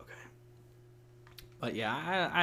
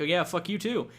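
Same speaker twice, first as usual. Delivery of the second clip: imitated sarcastic retort, pitched up; sarcastic and a little higher; snarky comeback; 5 semitones higher than usual. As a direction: fire back with mock snark. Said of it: "something snarky or sarcastic".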